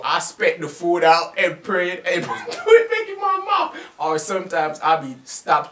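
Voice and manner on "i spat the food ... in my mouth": laughing mid-sentence, louder. Real, not acted. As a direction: tell it while cracking up. Laughing at own story.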